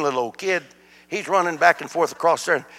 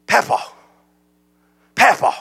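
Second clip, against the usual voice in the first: retold calling out; 6 semitones higher than usual. Grandkid calling him, retold.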